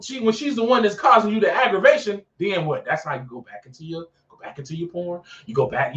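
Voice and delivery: ordinary talk, nothing marked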